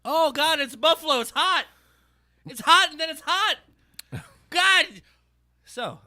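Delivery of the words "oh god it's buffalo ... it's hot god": mouth burning. Real, not acted. Mouth burning from buffalo dog.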